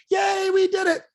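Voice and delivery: high, loud cheering shout; hammed-up victory cheer; mock celebration. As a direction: shout it like a team that just won. Acted month-end celebration of hitting quota.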